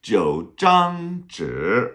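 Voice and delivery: very slow, lilting Jiu zhang zhi; teacher savours Jiu zhang zhi like a poem; poetic recital. Shown as a demonstration. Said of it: "nice poetic ring to it".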